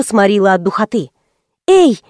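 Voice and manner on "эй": higher, louder call; raised voice. Acted. Narrator calls to silent young man, loudly. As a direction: call out to wake him. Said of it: "повысила я голос".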